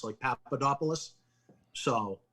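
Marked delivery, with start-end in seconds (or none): 0.2-1.1 Papadopoulos Anglicized as pap-uh-DOP-uh-lus; English pronunciation. Shown as a demonstration. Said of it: "say it in an English way".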